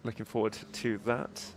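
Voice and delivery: stuffy, nasal voice from allergies. Real, not acted. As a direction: talk through a blocked, nasal nose. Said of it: "My nasal voice is not my usual tone".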